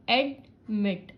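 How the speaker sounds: एडमिट in two parts, weight on मिट; stress on second syllable. Shown as a demonstration. Teacher testing stress by chin drop, एडमिट stressed on मिट. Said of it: "चिन थोड़ा सा drop हो".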